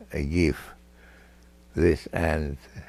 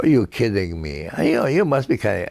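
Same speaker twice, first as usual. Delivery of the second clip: incredulous retort; 3 semitones higher, faster than usual. Retold or imitated. Americans disbelieving the speaker.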